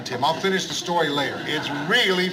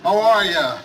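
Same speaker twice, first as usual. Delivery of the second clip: hearty loud greeting; 3 semitones higher, 5 dB louder than usual. Acted. Host greeting arriving guests loudly.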